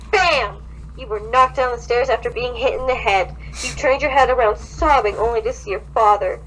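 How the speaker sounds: reading a creepy fanfic aloud, mildly dramatic; story reading. Acted. Friend reads a creepy fanfic aloud, mildly dramatic. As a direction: narrate the horror scene with light drama.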